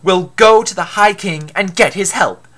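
determined. Acted. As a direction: declare the plan with resolve. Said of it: "Apollo said with determination".

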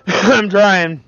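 amused, laughing I'm trying. Real, not acted. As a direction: laugh as you say it again. Repeats through a laugh.

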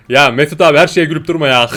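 loud scolding partner voice; role play. Pretend. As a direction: tell a laughing partner off, in character. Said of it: "ufak bir R P yapayım dedim".

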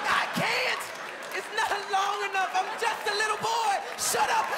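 put-on high, whiny scared boy voice; panicked little boy. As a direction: plead like a terrified kid. Little boy pleading to gunman.

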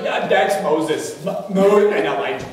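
flustered stammer. Retold or imitated. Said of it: "he doesn't know what to say".

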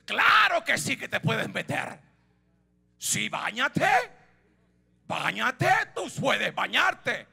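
a parent's mock agreement; sarcastic permission. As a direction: say yes while the tone says no. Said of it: "El tono en el cual se lo está diciendo, le está diciendo que no". (permiso sarcástico que suena a no)

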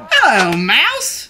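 high, drawn-out greeting; Duck's cheery call. A narrator's reading. Duck greeting Cow from the bike, high drawn-out call.

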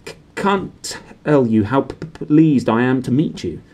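nervous teacher can't get it out; nervous stammer. Acted. Quirrell greeting Harry, nervous stammer. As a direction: stammer the P, trip over it. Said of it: "stammered Professor Quirrell".

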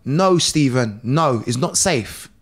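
slow, low warning; lightly voiced worried wife. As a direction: imitate a wife firmly forbidding it. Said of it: "his wife's then turned around and gone".

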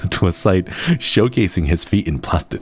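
laughing through it. Real, not acted. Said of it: "Oh, I can't do it".

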